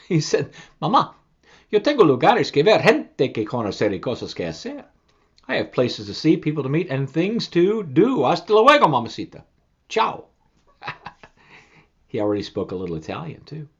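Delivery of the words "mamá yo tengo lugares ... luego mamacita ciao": eager chick voice, a bit louder; excited goodbye. Acted. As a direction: set off full of adventure. Chick bids mother goodbye.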